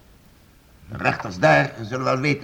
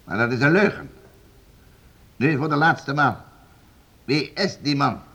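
stern; 3 semitones higher than usual. Acted. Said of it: "Waarom zo streng".

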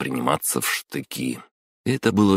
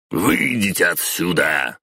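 sudden sharp raised voice on Выйдите; 3 semitones higher than usual. Acted. Boss suddenly ordering the intern out, voice raised. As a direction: snap the order to get out. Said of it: "внезапно повысил голос Самай".

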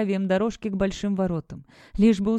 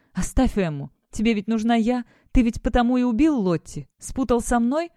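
defiant shouting; 5 semitones higher, 4 dB louder than usual. Acted. Captive defying her captor.

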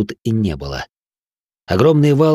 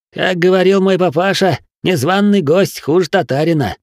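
sly cat voice; 8 semitones higher, 3 dB louder than usual. A narrator's reading. Cat's sly saying.

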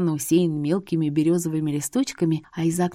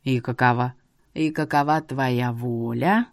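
slow, low, rising stress on «воля»; 6 semitones lower than usual. A narrator's reading. Seer probes her will, stressing «воля» slowly. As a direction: lean hard on «воля». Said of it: "по-особенному выделил последнее слово".

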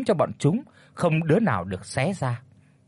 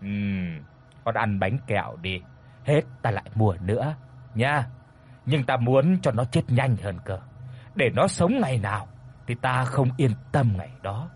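put-on sinister old sorcerer; 2 semitones lower than usual. Sorcerer tells the ghost child he wants the man dead, sinister. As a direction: plot his death coldly.

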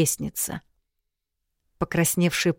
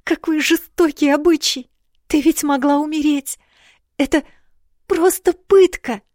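put-on much higher, louder young girl's outcry; a shocked princess crying out; high loud girlish indignation, slowing on the end; outraged girl; 11 semitones higher, 7 dB louder than usual. A narrator's reading.

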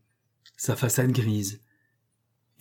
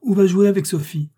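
high, loud harsh order; harsh shout at the child; 8 semitones higher, 5 dB louder than usual. A narrator's reading. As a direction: bark it off, pitched high. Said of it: "s'écria-t-il durement".

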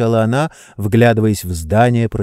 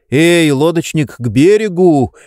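calling out; 6 semitones higher, 5 dB louder than usual. Acted. Calling the boatman to shore.

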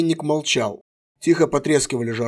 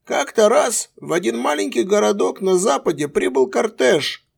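tender storytelling; 7 semitones higher than usual. A narrator's reading. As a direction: tell it gently to a child. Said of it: "Тихо и ласково, задушевным голосом".

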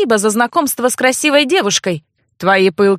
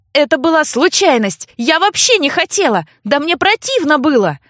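heated protest; 5 semitones higher than usual. Acted. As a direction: insist it was an accident. Girl protests loudly.

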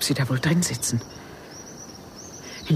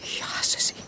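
whispered hate; 5 dB quieter, slower than usual. Acted. Jealous confession.

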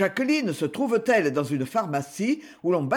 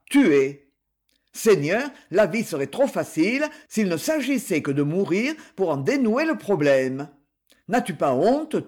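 indignant outburst. Acted. Marc rebukes his friend Jean for thinking of suicide, indignant outburst. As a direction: plead and scold a friend at once.

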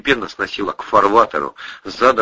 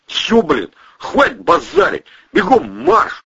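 high, loud drill command; barked order; 13 semitones higher, 4 dB louder than usual. Acted. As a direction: bark like a sergeant.

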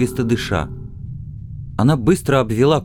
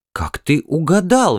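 lifted, astonished question; amazed he guessed it; surprised exclaim; 6 semitones higher than usual. Acted. Wife amazed husband guessed the hair, surprised exclaim. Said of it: "воскликнула она".

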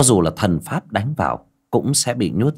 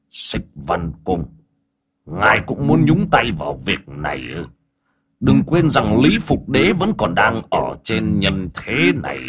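wary demon elder. Acted. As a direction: challenge the intruder with stretched words. Voices demon elder challenging newcomer.

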